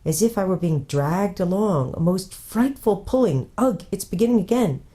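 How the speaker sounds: breathless. Acted. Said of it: "in a breathless voice".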